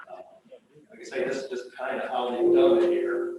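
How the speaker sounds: muffled. Real, not acted. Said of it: "it's just very muffled when I was listening to you".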